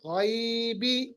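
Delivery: गैबी with a clear ai glide and a rising end; Arabic pronunciation. Shown as a demonstration. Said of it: "अरबी में गैब नहीं गैब है". (अरबी लहजे में गैबी)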